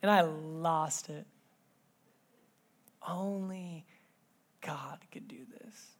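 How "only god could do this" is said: whispered softly, letting it sink in; hushed whisper. Real, not acted. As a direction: breathe the words like a secret. Repeats daughter's line hushed.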